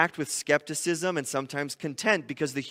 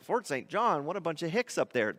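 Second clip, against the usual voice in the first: dismissive sneer; 7 dB quieter than usual. Retold or imitated. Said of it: "people from Vancouver who sometimes are like".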